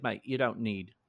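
put-on casual Australian accent, blunt and friendly. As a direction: quote the Australian paint guy in his Aussie accent. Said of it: "That accent was beautiful".

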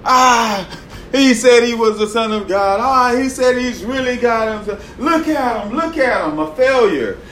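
mocking crowd. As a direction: sneer at him from below the cross.

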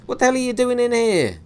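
high, loud bellow of a startled man; furious shout. Acted. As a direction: roar it at the intruder. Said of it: "Gibson shouted".

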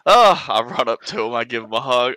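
overjoyed, high relieved cry. Acted. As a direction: gush with relief at the reunion. Relieved reunion, hugs friend.

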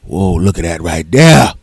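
imitated ogling call. One guy calls out, ogling.

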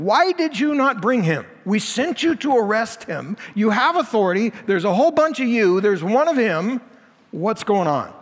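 indignant demand, pitch up; mild upset. Acted. Chief priests scold officers for not arresting, indignant. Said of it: "They're getting pretty upset".

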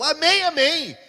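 high, loud, ringing amen; crowd's shouted response. Retold or imitated. Cinema crowd answering the preacher, high loud shout. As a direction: shout it back as a whole congregation.

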